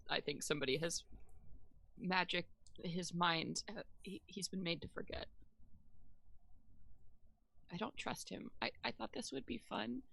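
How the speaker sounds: hushed, confidential aside; acted whisper. Player confiding suspicions to Juniper, hushed acted whisper. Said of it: "I'm gonna whisper over to Juniper".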